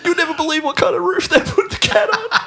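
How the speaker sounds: high, theatrical mock-suspense voice; joking about the cat, very high and theatrical; hammed-up storyteller. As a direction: ham it up way up high. Mock dramatic joke telling.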